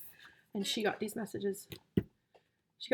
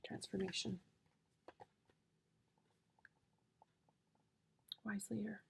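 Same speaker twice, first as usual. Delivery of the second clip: awed reading; 15 dB quieter than usual. Real, not acted. Reading cards in awe.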